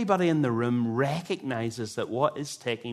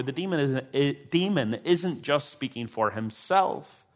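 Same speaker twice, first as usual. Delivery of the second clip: ordinary delivery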